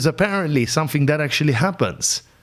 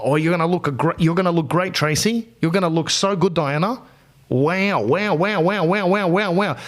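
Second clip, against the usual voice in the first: smooth surgeon; 3 semitones higher than usual. Retold or imitated. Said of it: "So he's there".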